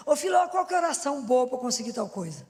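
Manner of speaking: caller shouting. Retold or imitated. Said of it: "O povo me liga e fala assim".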